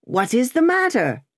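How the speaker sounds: high, lightly voiced query; anxious question. A narrator's reading. Passenger asks who is seeking him, high anxious question. Passenger calls to rider in mist.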